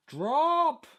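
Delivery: high, loud and delighted; excited shout. Real, not acted. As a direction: cheer as the needle drops. Needle drops, cheerful exclamation.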